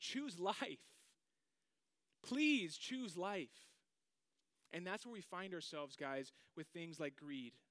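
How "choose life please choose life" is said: very loud, high, begging, pleading cry. Voicing Moses as he pleads to choose life: imitating Moses pleading. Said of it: "And he pleads".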